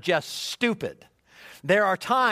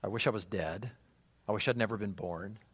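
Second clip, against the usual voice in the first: despairing wish; 10 semitones lower, 10 dB quieter than usual. Retold or imitated. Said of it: "Have you ever talked like this".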